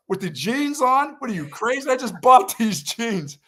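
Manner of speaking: high, slow mock disbelief; incredulous protest. Lifeguard mocking his own outrage at ruining new jeans, high incredulous.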